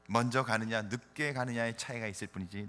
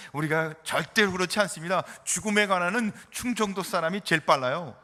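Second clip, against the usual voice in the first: louder, higher, insistent retort; mock-serious protest; 4 semitones higher, 5 dB louder than usual. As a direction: object firmly, as if taking offence. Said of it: "정색을 하고 이렇게 얘기합니다".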